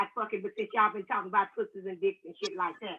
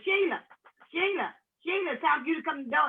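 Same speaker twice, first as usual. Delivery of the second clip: calling out; 5 semitones higher than usual. Pretend. Hotel staff calling at door.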